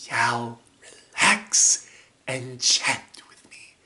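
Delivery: gently calm a friend, half-whispered; Jimpo. Acted. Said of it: "doing the voices and the lines".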